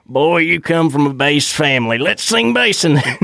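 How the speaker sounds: put-on Southern-accented dad, rising at the end; playful Southern accent. Host imagining the bass dad scolding, in a Southern accent. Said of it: "that kind of Southern accent".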